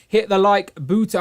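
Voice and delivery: slow, playful Jamaican lilt; light put-on Jamaican accent; mock Jamaican accent. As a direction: slip into a joking Jamaican accent. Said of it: "I don't know why we've turned Jamaican".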